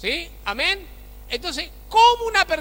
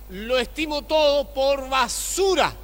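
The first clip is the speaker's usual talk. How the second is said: Paul's declaration. Retold or imitated. Preacher quoting the apostle Paul with a mild shout. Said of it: "el apóstol Pablo decía".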